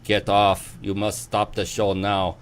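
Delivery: a hammed-up, half-hearted German accent; mock German stage manager barking, badly; German accent done badly, for a laugh. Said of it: "my horrible rendition of a German accent".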